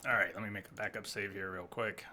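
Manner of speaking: quiet, shaky after the fight; adrenaline shakes. Real, not acted. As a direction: still trembling from adrenaline. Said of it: "My hands are shaking".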